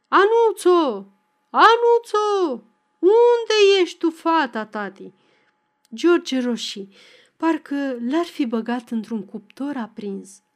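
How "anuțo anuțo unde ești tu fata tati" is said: high, drawn-out holler for a daughter; calling out at full voice. A narrator's reading. Father bawling for his daughter Anuța across the yard, calling out loudly. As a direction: shout far across the yard, long vowels, easing at the end. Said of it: "strigând în gura mare".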